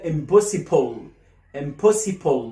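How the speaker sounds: "impossible" said as "im-possi-pol"; slow "impossible" with o before l; added O. Shown as a demonstration. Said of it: "بتحط O من عندك". (نطق "impossible" بإضافة O)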